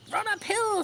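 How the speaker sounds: high bleating call; sheep calling. A narrator's reading. Sheep calling Wilbur uphill, high pitched. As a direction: shout it up the hill. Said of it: "said the sheep".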